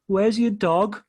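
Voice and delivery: put-on high, childlike squeal; excited little boy voice; little kid's voice. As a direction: pipe it up like a seven-year-old fan. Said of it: "she does the voice".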